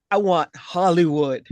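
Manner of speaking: lightly voiced accent quote; a hint of Rico's accent, retold; quoting Rico. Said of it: "put a little bass in your voice".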